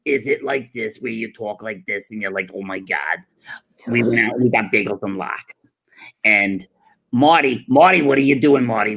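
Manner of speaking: lichte imitatie van een oude joodse oma die Marty roept; a hint of a nagging Jewish grandma; Jewish grandmother voice. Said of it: "Jewish grandmother voice".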